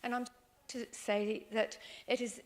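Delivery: normal talking voice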